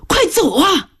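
high, crying plea to flee; desperate warning. Acted. Wounded boy begs his aunt to flee, crying. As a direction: gasp out the warning through tears.

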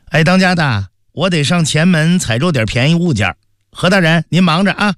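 a light hint of a cheerful housewife; the speaker's own voice.

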